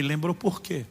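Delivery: soft, probing ask; gentle question. Retold or imitated. Pastor asks softly, probing gently. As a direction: quietly ask the ashamed brother why. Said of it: "ficou envergonhado e insisti".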